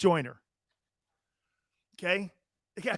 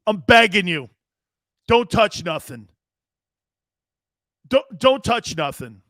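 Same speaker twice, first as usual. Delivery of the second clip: imitating begging producer; 5 dB louder than usual. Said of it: "Xander's probably going".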